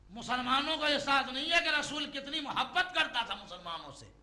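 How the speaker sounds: high, loud insistence; emphatic preaching. Real, not acted. Preacher reproaching Muslims over the Prophet's love, loud and emphatic. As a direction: drive the point out to the congregation.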